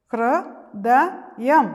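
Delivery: ഹൃദയം drawn out very slowly and loud; teacher spells out ഹൃദയം slowly for the class; slow sounding out. Shown as a demonstration. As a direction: stretch every syllable of ഹൃദയം. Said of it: "എൻ്റെ ഒപ്പം പറയണേ".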